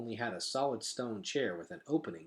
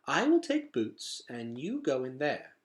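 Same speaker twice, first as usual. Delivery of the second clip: shy nanny voice; 3 semitones higher than usual. Acted. Dulcet's voice.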